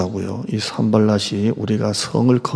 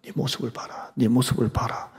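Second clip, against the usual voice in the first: hushed, breathy taunting whisper; the devil whispering to a believer, sneering; sly devil whisper; 9 dB quieter than usual. Retold or imitated. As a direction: whisper it like a tempter in your ear. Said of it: "이렇게 합니다".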